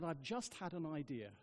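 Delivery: hushed, low-key confiding; quiet announcement to the congregation; very quietly. Retold or imitated. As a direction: say it softly to the room. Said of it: "I said very quietly".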